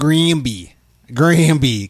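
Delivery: Granby with Baltimore vowels; demonstrated Baltimore pronunciation; Baltimore accent. Shown as a demonstration. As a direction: try the town name in a Baltimore accent. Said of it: "some of those words with the Baltimore accent".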